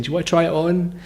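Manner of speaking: polite pestering. Retold or imitated. Traveller coaxing a stranger on the bus, politely pestering. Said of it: "really politely harassing this guy".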